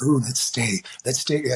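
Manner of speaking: a barely-there Robin Williams, close to own voice; a failed stab at Robin Williams; bad Robin Williams. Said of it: "I can't do Robin Williams".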